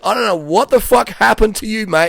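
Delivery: half-laughing in delight; laughing supervisor. Retold or imitated. Supervisor Rob amazed at the new worker, laughing and loud. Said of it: "he was laughing".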